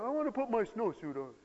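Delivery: put-on relent like a kid who now wants out; child giving in. Child relenting half an hour later, high plea.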